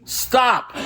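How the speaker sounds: high, abrupt mock cry; acted command to halt. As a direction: cut off a nonstop talker with one word. Acts out halting nonstop talker.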